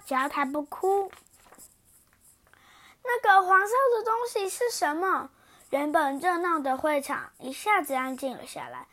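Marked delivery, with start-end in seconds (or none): 3.0-5.3 high startled question at the sight; alarmed cry. Acted. Princess spotting the yellow thing, alarmed. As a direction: gasp out the question in sudden alarm.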